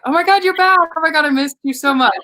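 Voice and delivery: overjoyed to have her back; joyful reunion. Real, not acted. Friend reconnects after frozen screen.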